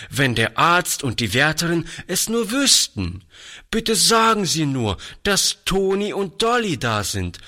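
put-on high, eager boyish voice, bursting to explain; a lively young boy pleading his case; lively boy Toni. A narrator's reading. Toni eagerly tells the lady she doesn't know him. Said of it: "sagte Toni lebhaft".

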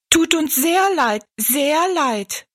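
high little dwarf voices; echoing dwarfs. A narrator's reading. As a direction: chirp the apology like tiny people. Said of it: "echoten die Zwerge". (hohe, piepsige Zwergenstimmen)

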